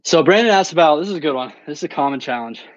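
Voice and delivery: breathless after running stairs; winded, catching breath between words. Real, not acted. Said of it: "Sorry, I'm out of breath".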